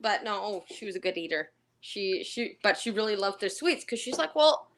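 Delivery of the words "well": put-on indignant old lady. Danish resident defends sweets.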